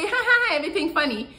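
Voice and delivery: high fake giggle, hammed up; giggly girl. Mimicking a giggly girl over his jokes, high fake laugh. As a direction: squeal a silly laugh. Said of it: "They're just so giggly".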